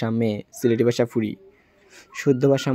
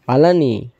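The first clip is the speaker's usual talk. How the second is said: greeting asked in Sylheti dialect; casual Sylheti Bangla; 4 dB louder than usual. Shown as a demonstration. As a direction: say it the Sylheti village way. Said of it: "Sylheti ভাষা".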